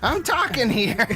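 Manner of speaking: high, drawn-out complaint; indignant protest. Acted. Interrupted mid-argument, high mock-indignant complaint. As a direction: push back at the interruption, high and slow.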